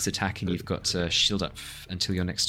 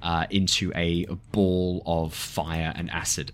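dramatic narration; slower than usual. Acted. GM narrates plant exploding.

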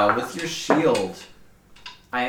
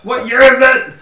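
dazed disbelief; 12 semitones higher, 13 dB louder than usual. Acted. Player voicing dazed character.

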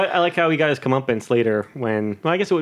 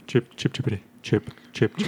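Whitey; 6 semitones lower, 6 dB quieter than usual. Pretend. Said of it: "it's been Kermit and the Wh-, uh, Whitey".

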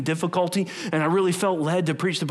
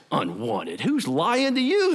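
Holy Spirit voice; 3 semitones lower, slower than usual. Acted. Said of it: "the Holy Spirit would say".

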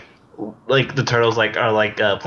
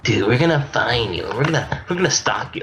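Mikey impression; 3 semitones higher than usual. Repeating Mikey line, higher.

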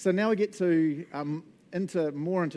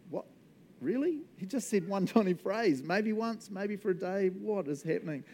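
astonished disbelief; 4 semitones higher than usual. Acted. Voicing a reader's astonished disbelief.

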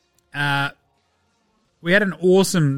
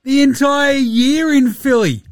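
incredulous rant; 7 semitones higher, 3 dB louder than usual. Real, not acted. Host ranting at Harden.

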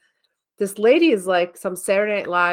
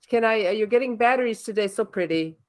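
lightly mimicked shop lady dropping compliments mid-sentence; a hint of her put-on accent; store-clerk imitation; 3 semitones higher than usual. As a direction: toss in little cooed compliments as asides. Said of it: "she keeps saying all these words like that".

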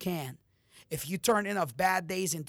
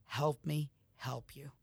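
whispered plea; 3 semitones lower, 6 dB quieter than usual. Real, not acted. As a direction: breathe it close as a personal plea. Intimate sign-off plea.

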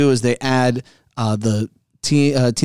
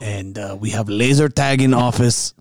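put-on slow, stilted foreign-accent boast; lightly accented founder, taking it slowly; mock company founder; 2 semitones lower, slower than usual. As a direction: list office attractions slowly in a put-on accent.

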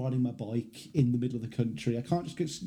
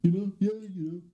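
fast, higher you-knows; impression of a singer; 5 semitones higher, faster than usual. Shown as a demonstration. Showing the singer's every second word, quick impression. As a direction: rattle off the singer's filler. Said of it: "every second word has to be".

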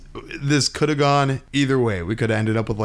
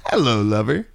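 femme fatale. Acted. Sultry greeting to co-host.

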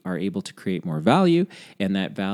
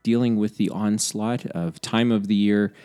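stuffy voice from a head cold; blocked nose. Real, not acted. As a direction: talk through a runny-nose cold. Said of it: "I apologize up front for my voice today".

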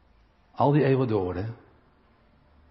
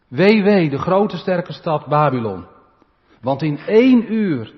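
loud lament; 3 semitones higher, 6 dB louder, slower than usual. Acted. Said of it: "vers tien B".

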